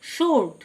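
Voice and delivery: "শোর্ট" with no W sound; silent W. Shown as a demonstration. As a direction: model "শোর্ট", leaving out the W after the first sound. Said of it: "ডব্লিউ silent". ("শোর্ট", ডব্লিউ উচ্চারণ না করে)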